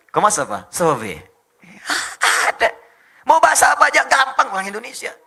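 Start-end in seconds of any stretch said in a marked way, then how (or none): 0.1-1.2 loud, falling French-style greeting; mock French accent. Indonesian showing off French, mock French accent. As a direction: fake a French speaker's greeting. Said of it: "kayak orang Prancis".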